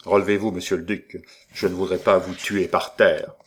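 icy, fast, steely command; cold and cutting. Acted. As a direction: cut him down with a cold voice. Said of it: "une voix froide et tranchante comme l'acier".

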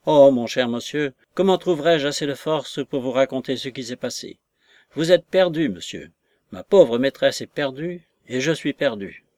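lightly acted despairing wail; mild lament. Maid breaking bad news to her mistress's lover, mildly distraught.

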